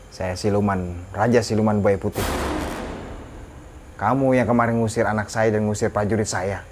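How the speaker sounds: a hint of a proud demon king claiming his due; spirit king voice. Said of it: "Ya, ini rajanya".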